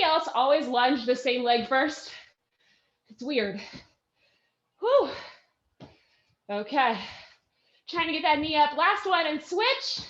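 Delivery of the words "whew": short, high "whew"; exerted "whew". Real, not acted. Coach working through the lunges, high exerted whew. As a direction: let out a quick high "whew" of effort. Effort during hard lunges.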